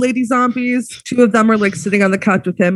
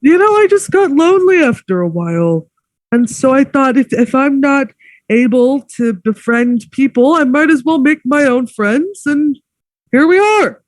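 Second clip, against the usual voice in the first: raised, plaintive lament; lonely host; 4 semitones higher than usual. Acted. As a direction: pour out his loneliness. Host's heartfelt lonely speech.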